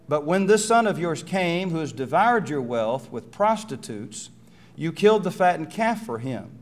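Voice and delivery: loud, high start of a jealous complaint; bitter accusation. Acted. Older son accusing his father, loud and bitter. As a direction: spit out the grievance about the brother.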